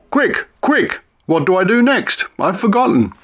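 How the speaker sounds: half-hearted roar, pitched high; mock roar. A narrator's reading. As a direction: yelp it out in a sudden panic. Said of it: "I roared".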